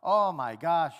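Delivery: loud, high scolding rant; mock scolding of a wayward son; scolding parent. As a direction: chew him out like an exasperated parent. Father scolding son, voiced.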